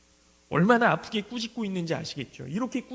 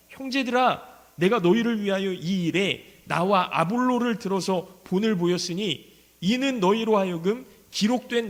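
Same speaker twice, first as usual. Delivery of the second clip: louder, measured Bible reading from the pulpit; solemn scripture reading; 4 dB louder than usual. Acted. Preacher reading Paul's rebuke aloud, solemn and louder. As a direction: proclaim the verses to the congregation.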